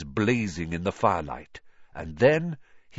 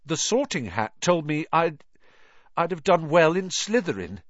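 put-on higher, fast worried boy's voice; anxious boy; 10 semitones higher, 4 dB louder than usual. A narrator's reading. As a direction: pour it out nervously.

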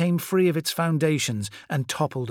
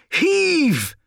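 high, loud drawn-out heave; shouted command; 6 dB louder than usual. A narrator's reading. Corvo driving his men at the statue, shouted command. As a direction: shout to time the push.

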